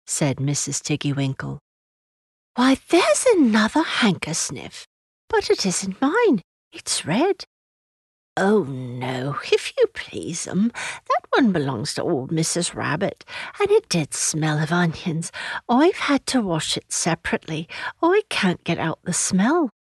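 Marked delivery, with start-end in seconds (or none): 2.5-7.4 put-on high-pitched little girl; child's voice. Lucy examining another handkerchief, high child's voice. 8.4-19.7 a hint of a humble country servant; lightly voiced washerwoman. Washerwoman introducing herself to Lucy, lightly rustic and deferential.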